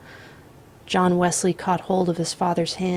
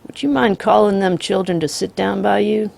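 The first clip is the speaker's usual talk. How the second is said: calm drawling outlaw; 5 dB louder than usual. Acted. The Misfit voiced in story.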